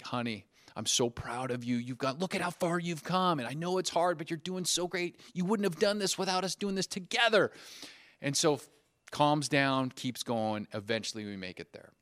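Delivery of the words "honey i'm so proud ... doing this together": put-on higher-pitched, coaxing praise to a child; acted proud-father pep talk; encouraging dad. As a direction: lift a discouraged daughter's spirits. Father encouraging crying daughter.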